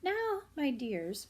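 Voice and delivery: slow motherly rabbit voice, drawn out; a mother rabbit coaxing her little ones. Acted. Parent reading, voicing Mrs Rabbit to the children.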